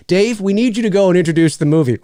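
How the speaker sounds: quoting the boss through a laugh; laughing imitation of manager. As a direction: relay the request while chuckling. Boss asking him.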